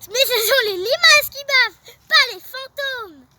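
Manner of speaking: laughing. Acted. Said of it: "Lucas éclate de rire".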